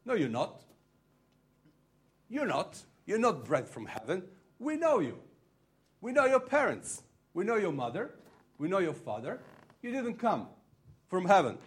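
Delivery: crowd heckler's shout. Retold or imitated. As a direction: call it out like someone in the crowd objecting. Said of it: "shout out and says".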